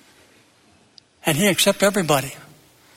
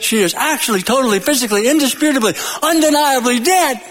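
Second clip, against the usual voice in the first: building, higher-pitched mock proclamation; Munchkins' pronouncement; 4 semitones higher than usual. Munchkins tell Dorothy the witch is dead, rising proclamation. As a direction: run the adverbs together, climbing to a high finish. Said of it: "The Munchkins. They said".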